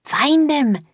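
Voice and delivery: very high commanding yell. A narrator's reading. Grinda yelling an order to Baylor, very high. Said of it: "yelled Grinda".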